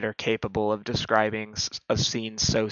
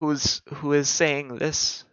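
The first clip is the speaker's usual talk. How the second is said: put-on feeble old woman voice; 3 semitones higher, slower than usual. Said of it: "a feeble old woman's voice from behind the door".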